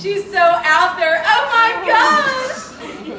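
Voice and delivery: high, slow, squealing gush; breathless valley-girl squeal. Acted. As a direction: swoon over your best friend. Gushing about BFF Jenny.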